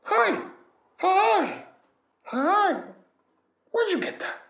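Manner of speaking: very high, squeaky pet-greeting voice; high baby-talk for a dog. Shown as a demonstration. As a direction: coo at a dog in falsetto. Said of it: "that is the voice that I use to talk to her".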